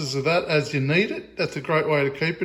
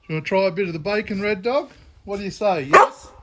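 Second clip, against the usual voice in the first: excited dog talk; 5 semitones higher, 4 dB louder, faster than usual. Real, not acted. Offering bacon to the dog.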